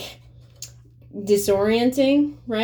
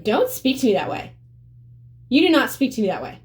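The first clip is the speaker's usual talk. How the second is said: raised, higher, fast comeback; firm retort; 5 semitones higher, faster than usual. Retold or imitated. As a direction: put him in his place, fast. Retold comeback to boyfriend.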